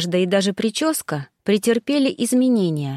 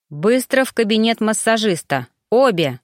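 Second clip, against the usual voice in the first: commanding. Acted. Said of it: "скомандовала Зоя девушкам".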